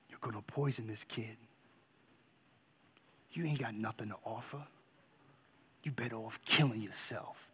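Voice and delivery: low, hushed voice of dark thoughts; whispering inner thoughts. Retold or imitated. His own thoughts telling him he's worthless, low and hushed. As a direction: murmur it low, like a creeping thought. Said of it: "These thoughts would come, whispering".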